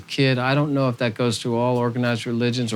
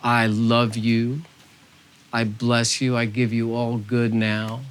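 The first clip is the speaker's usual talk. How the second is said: gentle voice of Spirit; slower than usual. Acted. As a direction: speak as a loving spirit, unhurried and tender. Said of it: "Hear that gentle voice of Spirit saying".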